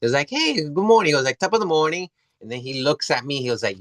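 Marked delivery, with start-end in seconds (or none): 0.3-1.1 lightly imitated Irish greeting, pitched higher; mild Irish lilt on a higher pitch; Irish accent. Recalling the two Irish guys outside, light Irish accent. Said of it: "they had Irish accent". 1.4-2.1 lightly imitated Irish accent; a hint of Irish in a greeting. Retelling the Irish guys' morning greeting, mild Irish accent. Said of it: "they had Irish accent".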